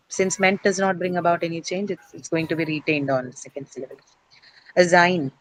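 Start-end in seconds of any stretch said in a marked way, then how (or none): 4.8-5.3 Assign, with the weight on SIGN; stress demo. Shown as a demonstration. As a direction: model Assign with a lengthened sign. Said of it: "Next one is assign".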